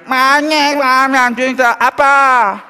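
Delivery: put-on high, slow, sing-song dad cooing at a baby; doting father cooing at his baby; cutesy baby talk. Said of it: "he's just doing this cutesy talk".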